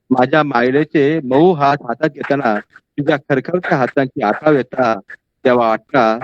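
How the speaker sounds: measured, heartfelt poetry reading; poem recitation. Acted. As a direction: recite it like a memory of a beloved aunt. Poet recites own Malvani poem.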